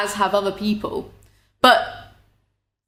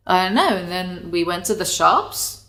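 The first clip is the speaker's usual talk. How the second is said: bad American accent. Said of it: "That was a te-, I'm so sorry".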